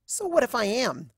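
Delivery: whiny mortified cry of Mother; a daughter cringing at her parent; embarrassed teen daughter. Acted. Daughter mortified by her mother, whiny cry.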